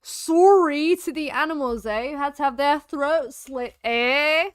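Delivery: a hint of Yorkshire, punchy; Yorkshire accent. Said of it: "Don't know why I went Yorkshire".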